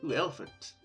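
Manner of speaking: normal talking voice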